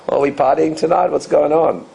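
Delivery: easygoing party-night opener; casual, relaxed. Shown as a demonstration. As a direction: throw it out breezily, no pressure. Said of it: "just casual, relaxed".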